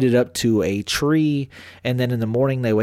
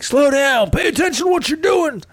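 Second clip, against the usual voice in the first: high-pitched imitated yell; mock dad scolding; 13 semitones higher than usual. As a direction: call out like an exasperated dad. Acted dad scolding from afar.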